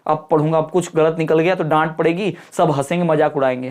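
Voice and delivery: nervous student. Retold or imitated. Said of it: "थरथरा के काम जाता है".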